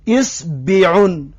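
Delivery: اصبعون drawn out slowly with i after the s; slow second pronunciation. Shown as a demonstration. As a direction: sound out اصبعون slowly as isbiun. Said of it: "دو نمود شد".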